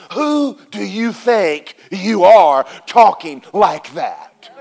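put-on slow, drawn-out sneer of an older brother; a hint of a jealous brother putting him down, slow; scolding big brother. Older brother scolds David for his bold talk, slow mock sneer. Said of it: "His brother got all over him".

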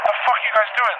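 high, incredulous mock challenge; retold bewilderment. Dreamer to his ex-nannies, retold bewilderment.

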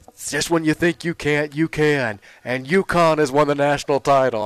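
milk the big moment; corny announcer call. Retold or imitated. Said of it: "his just corny-ass calls".

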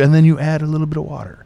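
light Scottish lilt, a bit quick; a mild imitation of a Scottish distiller's accent; hint of a Scotch brogue, quickly tossed off. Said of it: "In that beautiful Scotch accent".

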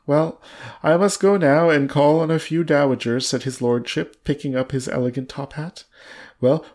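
measured storybook reading with lightly acted dialogue; story narration. A narrator's reading. Reading a novel aloud to a co-host, measured story narration. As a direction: read the tale out deliberately, lightly voicing the lines.

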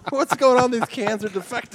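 high, baffled mock Steve Martin; a goofy high confused voice; quoting Steve Martin. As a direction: play it dumb and confused. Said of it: "He's like".

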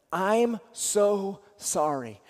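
slow, soft and sincere; gentle sympathy. Shown as a demonstration. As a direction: say it slowly, like you mean it. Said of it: "I got three words for you".

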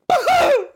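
high mock cackle; retold cackle of a man who can't die; imitated laugh. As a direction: copy his odd laughing noise. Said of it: "that noise that he does".

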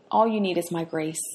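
soft and loving, a quiet promise. Acted. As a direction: say it tenderly, like a loving father. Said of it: "the Lord lovingly said to him".

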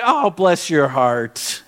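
slow, smiling Southern condescension; said with a smile. Retold or imitated. Southerner feigning kindness to an outsider, said with a smile. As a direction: imitate slow, falsely kind sympathy. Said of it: "say it with a smile on their face".

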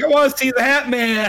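high put-on voice, wide-eyed; mock dopey voice. Friend quoted wanting to see the Hat Man, silly high voice. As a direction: lightly play a goofy guy eager to meet the Hat Man. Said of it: "He's like".

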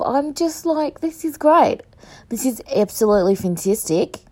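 put-on wobbly Australian accent, sliding toward South African; attempted Australian accent. Podcaster hamming up an episode intro in a muddled Australian accent. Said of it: "It was supposed to be Australian".

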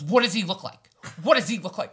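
acting out a sister demanding answers. Angry sister demands a description.

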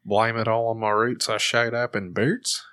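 Australian lyric with odd R; Australian accent. Shown as a demonstration. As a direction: show the weird Australian R. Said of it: "you gotta get that weird".

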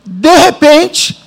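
de repente drawn out very slowly; slow emphatic. Acted. Preacher telling how God reached him, slow and emphatic. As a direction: stretch "de repente" for effect. Preacher stressing key phrase.

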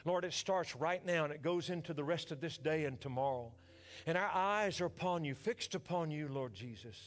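leading the church in prayer. Acted. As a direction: pray over the congregation, then rise. Leads a prayer.

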